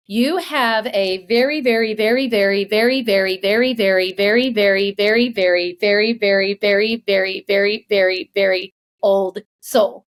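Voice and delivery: slow, rhythmic string of verys; imitated drawn-out repetition. Palm reader telling her about her old soul, drawn-out repetition. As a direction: stretch it out steadily, very after very. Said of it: "he said it just like that".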